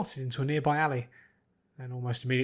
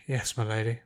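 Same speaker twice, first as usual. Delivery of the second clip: put-upon butler; 4 semitones lower than usual. A narrator's reading. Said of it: "an old butler who appeared very put upon".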